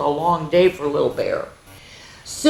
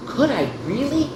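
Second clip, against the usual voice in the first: high, breathless little cub voice; excited cub; 8 semitones higher, 3 dB quieter than usual. Acted. Little Bear asks Daddy, high and thrilled. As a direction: ask in amazed delight. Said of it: "Little Bear gasped".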